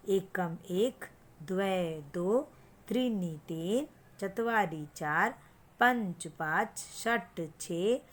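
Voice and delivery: slow, sing-song number recitation; teacher's counting chant; counting drill. Shown as a demonstration. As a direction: recite the numbers for a child to repeat.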